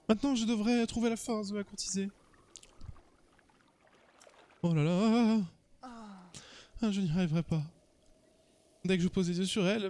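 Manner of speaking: timid admirer, theatrically lamenting; lovestruck suitor. Acted. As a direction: play a smitten man losing his nerve.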